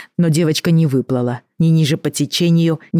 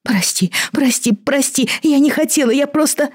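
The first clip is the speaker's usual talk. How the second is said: wailing apology; 12 semitones higher than usual. A narrator's reading. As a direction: lament it, pitch climbing with each plea. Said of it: "она запричитала".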